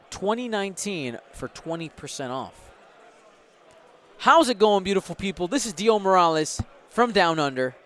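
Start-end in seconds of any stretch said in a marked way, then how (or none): 4.2-7.7 a hammed-up but thin Australian accent; mock Aussie host greeting, louder; bad Australian accent. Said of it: "That was a really terrible, uh, Australian accent".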